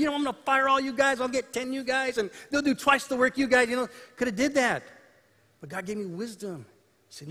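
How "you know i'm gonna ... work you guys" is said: rapid, higher-pitched mock threat; mock threatening. Boss imagining threatening the crew, mock threatening. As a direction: rattle off a hypothetical threat, pitched up. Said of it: "could have easily started threatening them".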